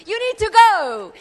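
You need to go, with go thrown out high and loud; loud preaching charge. Acted.

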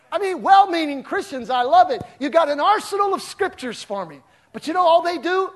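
loud, high preaching. Acted. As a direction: preach it out hard. Preaching at full force.

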